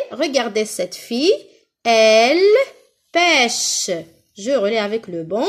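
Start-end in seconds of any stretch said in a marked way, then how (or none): 1.8-3.9 slow, each word held; word-by-word modelling. Shown as a demonstration. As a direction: draw out each word for learners. Teacher models sentence word by word. (mot à mot, lentement)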